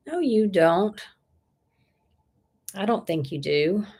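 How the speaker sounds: ordinary delivery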